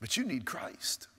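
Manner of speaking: breathy hush, voice suddenly dropped; dramatic whisper. Real, not acted. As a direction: lean in and whisper it. Preacher drops to a whisper.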